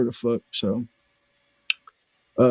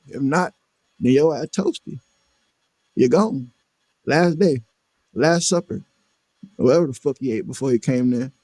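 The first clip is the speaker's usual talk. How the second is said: taunting; 2 semitones higher than usual. Retold or imitated. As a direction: sneer it down at him. Retold taunting dying intruder.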